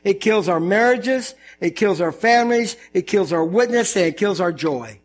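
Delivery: preacher's emphatic list; listed emphasis. Shown as a demonstration. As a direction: stress each noun in turn. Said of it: "it kills four major aspects".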